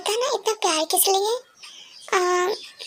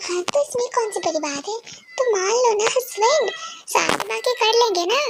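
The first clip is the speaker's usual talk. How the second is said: a touch of fake crying; mock whining; 5 semitones higher than usual. Husband whining to be called husband, mock crying. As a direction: whine it like a sulky child.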